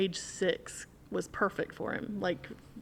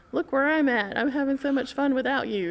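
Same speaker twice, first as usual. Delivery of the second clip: gloating skeleton; 6 semitones higher, 4 dB louder than usual. Retold or imitated. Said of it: "I would get an email and go".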